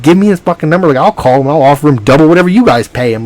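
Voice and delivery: worked-up reenactment of a demand; retold exasperated demand. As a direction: push it out insistently, fed up and urgent. Retelling his exasperated demand for number.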